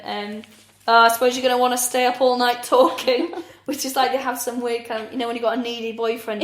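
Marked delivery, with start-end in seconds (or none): 0.9-3.3 laughing mock quote. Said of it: "she went".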